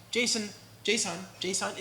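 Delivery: "json" as American JAY-sawn; American English accent. Shown as a demonstration. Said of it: "in my American English accent".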